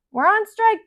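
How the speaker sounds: defiant crayon. Acted. Brown the crayon refuses the boy, high and defiant. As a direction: squeak it out high like a stubborn little crayon. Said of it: "Brown told him".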